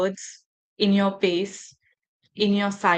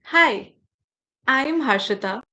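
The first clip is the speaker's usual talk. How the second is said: weak self-introduction. Shown as a demonstration. Trainer demos a diffident self-introduction to teachers, fading modestly. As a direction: start upbeat on Hi, then shrink and play yourself down. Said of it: "I'll say something like".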